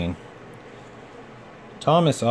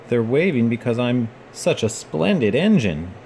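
self-important. Acted. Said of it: "he thought importantly".

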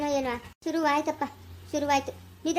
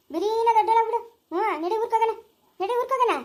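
sing-song it to the little one; telling the baby to grow up fast, higher playful baby talk; 6 semitones higher than usual. Acted.

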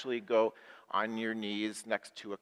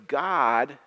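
leading a prayer line; 3 dB louder, slower than usual. Shown as a demonstration. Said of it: "Say that with me".

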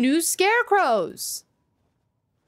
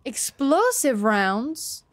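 slow rising disbelief on explosive rounds; surprised; slower than usual. Real, not acted. Gamer rereads the loot in disbelief, slow rising surprise. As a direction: savour the surprise.

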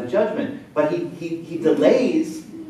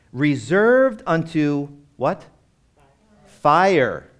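emphatic reveal; 4 dB louder, much slower than usual. Acted. Preacher building to answer.

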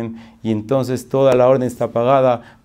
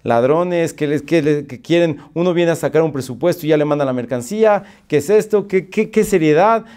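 mildly indignant, slightly raised voice; annoyed complaint; 3 semitones higher than usual. Retold or imitated. Customer arriving at the office, somewhat annoyed. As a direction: sputter a retold complaint. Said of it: "llegó ya un poco molesto".

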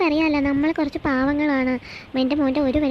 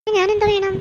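indignant snap; 5 semitones higher than usual. Acted. Wife arguing with husband over buying an AC, indignant. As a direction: throw it back at him.

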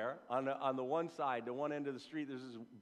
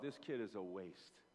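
mock dismissive verdict; 7 semitones lower, 9 dB quieter than usual. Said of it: "you would have thought".

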